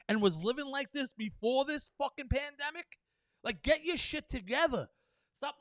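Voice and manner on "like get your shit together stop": louder, higher scolding; exasperated shout at careless people; exasperated outburst. Real, not acted. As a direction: tell them off, fed up. Angry rant at people.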